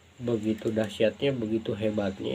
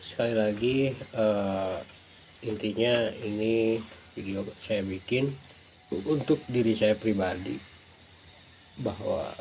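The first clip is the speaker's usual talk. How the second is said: talking around a cigarette; cigarette in mouth. Real, not acted. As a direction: speak with a cigarette between the lips. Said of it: "Saya sambil ngerokok ya". (bicara sambil merokok)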